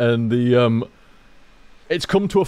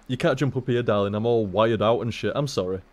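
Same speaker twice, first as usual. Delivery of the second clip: soft coaxing; 3 semitones lower, 6 dB quieter than usual. Acted. Calming cat off the desk.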